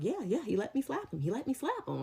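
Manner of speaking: put-on a light take on a giddy drunk; goofy drunk. Coworker boasts that he was allowed to slap, lightly voiced goofy drunk. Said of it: "all on his little crackhead energy".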